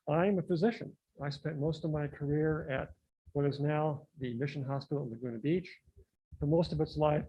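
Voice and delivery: muffled speech through a mask; through a face mask. Real, not acted. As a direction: speak as if wearing a face mask. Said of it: "Can you hear me with the mask on?".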